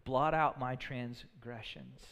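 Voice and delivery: reverent psalm read; humble prayer. Acted. Reads David's psalm of repentance.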